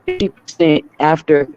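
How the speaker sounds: choppy robotic voice from a bad signal; breaking up like a robot over the line. Real, not acted. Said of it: "you sound like a robot".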